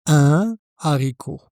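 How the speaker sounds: "un haricot" with no N linking, separate vowel; no liaison demo. Shown as a demonstration. Teacher to learner, showing the aspirated H: no linking. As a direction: keep "un" and "haricot" apart. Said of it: "pas de liaison".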